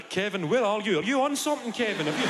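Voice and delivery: a hint of a worried mum. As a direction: fret over your son.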